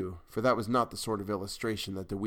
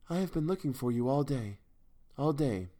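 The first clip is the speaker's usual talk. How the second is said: higher-pitched, intense woman's voice; thrilling tones; 5 semitones higher than usual. A narrator's reading. Woman finds the man she sought all day, thrilling tones. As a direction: give her lines a restrained thrill. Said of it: "in the same low, thrilling tones".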